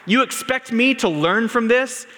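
high, loud indignant question; all-caps tweet. Retold or imitated. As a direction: demand it, outraged. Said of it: "Continuing in all caps".

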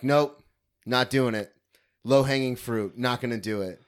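loud, curt no; firm refusal. Retold or imitated. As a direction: shut it down flat. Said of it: "I'm like".

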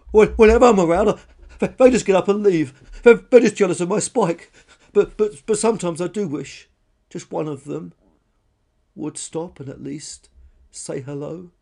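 high, loud blubbering fading to a wistful wish; weeping, stammering outburst. Acted. Lonely dinosaur laments being shunned, weeping. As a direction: blurt it through tears, then soften. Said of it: "she wept".

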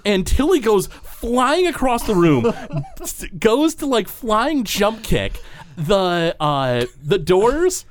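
high-pitched, drawn-out blow-by-blow; excited action narration. Acted. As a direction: stretch out the big heroic moment. Game master narrates a triumphant kick.

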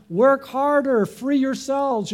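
imitated shouted command; mock shout. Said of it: "God didn't shout from heaven".

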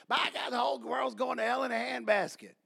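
lightly mocking, droning lament; whiny Facebook complainer. Preacher mimicking people griping on Facebook, mock whining. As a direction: put on a hand-wringing online moaner. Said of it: "get on Facebook, be like".

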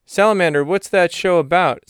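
a hint of a curious buddy; Doug's voice. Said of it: "So Doug says".

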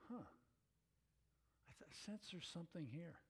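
slow, breathy wondering, drawn out; musing, half-whispered. Retold or imitated. Athenians intrigued by Paul's sermon, slow musing half-whisper. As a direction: puzzle it over slowly under your breath. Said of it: "they kinda squinted".

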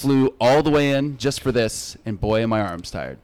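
deadpan dad-joke punchline; corny joke delivery. Pretend. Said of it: "I've never done that one before".

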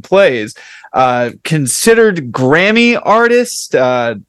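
slow, drawn-out host introduction; show intro. Shown as a demonstration. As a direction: introduce the guest with measured build-up. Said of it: "give you the intro that I gave you".

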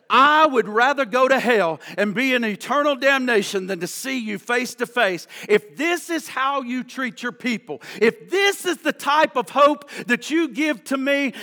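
forceful, preached outburst at God; reenacted furious prayer; retold angry yell. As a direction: punch the opening, then drive on. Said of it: "And he yelled out".

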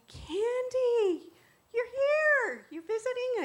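loud, high-pitched delighted surprise; excited greeting. Retold or imitated. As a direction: call out in thrilled recognition. Retold surprised greeting from friend.

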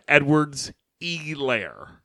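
slow, mocking "Elaire" with the long first E drawn out and leaned on; overemphasized name. Mocking the announcer, drawing out "Elaire" slowly. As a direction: lean hard on the E of "Elaire", stretching the name slowly. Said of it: "to overemphasize the E".

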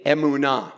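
"emunah" as eh-moo-NAH for repeating; pronunciation of emunah. Shown as a demonstration. Preacher asks everyone to say it, "emunah" sounded out as eh-moo-NAH. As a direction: model "emunah" clearly, ending on an open "nah". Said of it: "Everyone say".

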